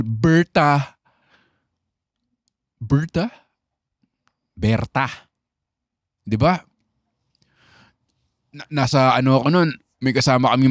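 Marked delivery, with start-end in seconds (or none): 0.0-5.1 light conyo-school Berta, repeated with a questioning lilt; conyo school accent. Retold or imitated. Imitating conyo-school students saying Berta. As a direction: mimic rich-school kids saying Berta. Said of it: "Yung mga konyong school".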